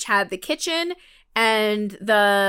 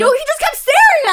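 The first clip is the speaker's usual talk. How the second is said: laughing; 6 dB louder, faster than usual. Real, not acted. Still laughing at the story.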